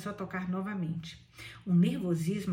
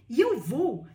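loud, raised exclamation; eager louder outburst; prompt cry; 4 semitones higher, 8 dB louder, slower than usual. A narrator's reading. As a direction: cry out readily, pitch swooping. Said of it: "gritou Billy prontamente".

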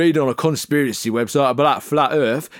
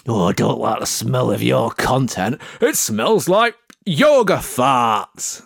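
mocking little beasts; 5 semitones lower, slower than usual. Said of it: "they come along and they go".

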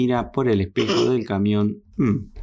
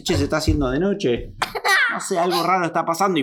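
puzzled driver; 5 semitones higher, faster than usual. Acted. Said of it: "y dice".

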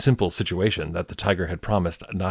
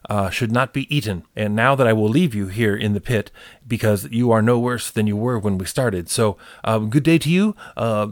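trickster tale voices. Acted. Hare delivers judgment.

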